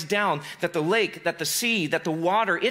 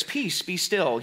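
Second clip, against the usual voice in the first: slow, hushed and holy; pious; much slower than usual. Shown as a demonstration. Quoting the King James Version, slow and pious. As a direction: intone it like an old pulpit reading. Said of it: "it's so pious, it's so, so holy".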